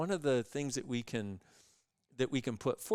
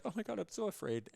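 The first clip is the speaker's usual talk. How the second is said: high, fast, hammed-up panic; mock fear; 10 semitones higher, faster than usual. The lady quitting her job, in hammed-up high panic. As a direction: overplay her fright. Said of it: "she's like".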